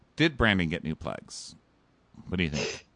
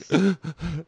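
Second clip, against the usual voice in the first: higher imitated sob; mock sobbing gasp; 8 semitones higher than usual. Paul sobbing in his exit interview, mock sob. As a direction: gasp like someone crying, put on. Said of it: "And he's sobbing".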